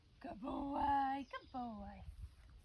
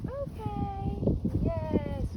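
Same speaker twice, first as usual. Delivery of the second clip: excited release word; 9 semitones higher, 8 dB louder, much slower than usual. Real, not acted. Releasing the dog with praise.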